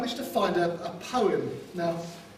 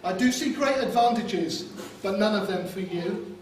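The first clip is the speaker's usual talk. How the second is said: put-on a light West Country accent, recited; best man's put-on West Country poem voice; 3 semitones higher than usual. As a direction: recite it in a mock West Country burr, playful. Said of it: "tell this poem in a West Country accent".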